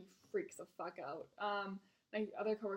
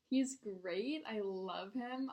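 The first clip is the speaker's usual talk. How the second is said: slow, drawn-out sarcasm; sarcastic praise; much slower than usual. Real, not acted. Server sums up the annoying regular, slow sarcastic praise. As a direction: praise him without meaning it, slowly. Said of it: "Obviously not".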